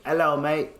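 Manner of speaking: imitated British hello; British accent. Friend messing with people in the park, mock British accent. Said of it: "Talking British accent".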